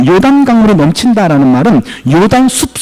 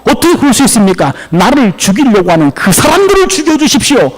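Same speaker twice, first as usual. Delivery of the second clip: higher, pleading protest to God; anguished plea; 4 semitones higher than usual. Acted. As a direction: plead with God, rising to a demand. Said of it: "예레미야는 너무 괴로워가지고".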